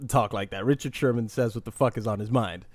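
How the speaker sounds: normal talking voice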